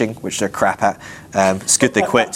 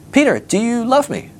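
weird Jesus; 11 semitones higher than usual. Acted. Jesus asking Peter on the beach, weirdly high voice. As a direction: play an eccentric questioner, pitched up. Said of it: "It's weird".

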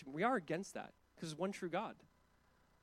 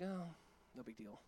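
mock shrug; 5 semitones lower, 12 dB quieter, slower than usual. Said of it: "easy for us to be like".

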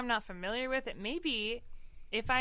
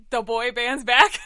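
put-on boy band announcement; 11 dB louder, slower than usual. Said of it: "But they say".

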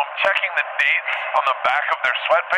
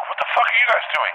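high, incredulous mock challenge; retold bewilderment; 9 semitones higher than usual. Dreamer to his ex-nannies, retold bewilderment. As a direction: act out appalled confusion, pitched up.

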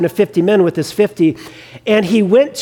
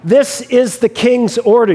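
mildly raised, insistent captain's order; imitated official summons, firmly put; mock escalated command; 2 semitones higher than usual. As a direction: act out an officer pressing the order a notch harder. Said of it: "he ratchets it up a notch".

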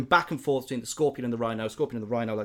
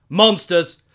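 loud, higher scream of panic; panicked guard; 4 semitones higher, 9 dB louder than usual. Retold or imitated. Fleeing guard screaming at the mist, loud panic. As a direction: yell it while running away.

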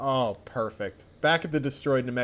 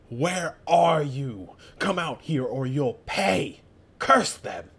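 tantrum; 4 dB louder, slower than usual. Acted. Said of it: "having a right tantrum".

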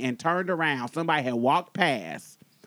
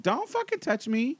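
retold warning; 8 semitones higher than usual. Retold slapping his hand away.

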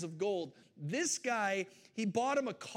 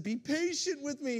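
begging; 5 semitones higher than usual. Acted. Servant pleading with his master, mild mock begging. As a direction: beg the master for patience. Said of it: "he begged".

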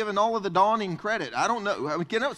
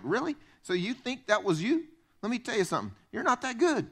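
pastor's retort; 3 semitones higher than usual. Retold or imitated. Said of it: "He's like".

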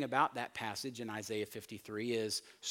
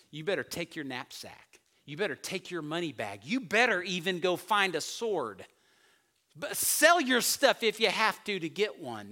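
voicing Jesus; 5 dB louder than usual. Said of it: "It's like".

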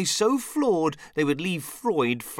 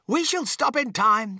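higher and louder call ahead; 11 semitones higher, 7 dB louder than usual. Acted. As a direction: call back over the shoulder. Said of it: "called out Mister Wonka".

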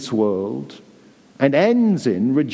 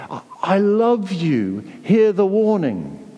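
tender pleading; 5 semitones higher, slower than usual. Retold or imitated. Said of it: "how this warning comes from God".

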